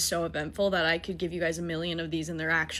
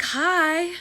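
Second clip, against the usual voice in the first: his greeting; 9 semitones higher, 6 dB louder than usual. Retold or imitated. Imitating the date's greeting.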